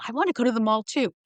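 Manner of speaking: mother chiming in. Retold or imitated. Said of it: "And my mother's like".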